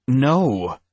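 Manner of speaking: a sharp, high, loud yell of "No". Acted. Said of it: "I yelled".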